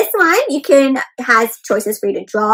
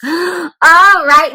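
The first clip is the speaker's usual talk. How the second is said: excited gasp; 3 semitones higher, 6 dB louder than usual. Acted. Cheerful transition to kids.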